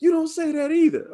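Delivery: high stern scolding mom. Retold or imitated. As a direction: lay down the rule like a strict mom. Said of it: "And she was like".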